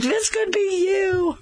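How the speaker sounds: high, drawn-out tearful wail; mock bawling. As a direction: playfully reenact blubbering at the kids. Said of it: "Oh, I was bawling".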